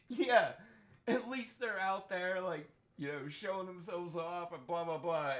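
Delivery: lightly voiced coworker brushing it off; imitating Kirsty.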